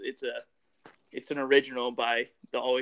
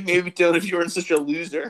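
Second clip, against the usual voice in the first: mock insult; 3 semitones higher, 7 dB louder than usual. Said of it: "He's like".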